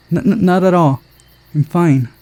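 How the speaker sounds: high, stuttering nervous denial; stammering in fear. Acted. Girl cowed by the director, high frightened stammer. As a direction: stammer it out, scared. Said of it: "gave her a menacing look".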